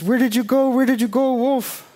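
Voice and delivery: high-pitched frantic calling out; high, frightened cry for a lost companion; scared. Acted. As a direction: call out in a panic, blind and lost. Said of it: "completely blind and scared and says".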